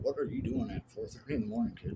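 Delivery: high, surprised clerk's voice; mock the puzzled gas station clerk; imitating the clerk. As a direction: clerk scolding a small boy, in a high mock voice. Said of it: "they're like".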